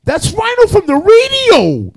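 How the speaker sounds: 목소리를 높여 길게 외치듯, 훨씬 높고 크게; 총 든 남자를 말리려 다급하게 외치는; high shout. Retold or imitated. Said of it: "the guy goes".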